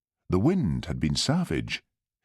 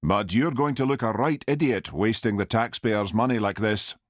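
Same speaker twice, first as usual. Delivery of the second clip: haughty; 4 semitones higher than usual. Acted. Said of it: "he said haughtily".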